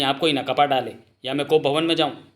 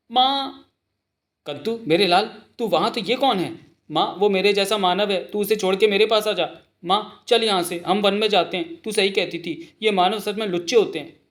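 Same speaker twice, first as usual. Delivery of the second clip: high-pitched little one's voice; baby elephant; 6 semitones higher than usual. Acted. Baby elephant urging mother to leave, high pleading voice.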